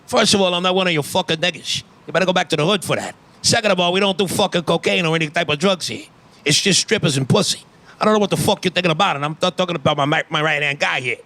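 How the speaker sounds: lightly voiced fast-talking mobster; hint of an indignant mob boss; Tony Soprano. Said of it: "drug deal with Tony Soprano".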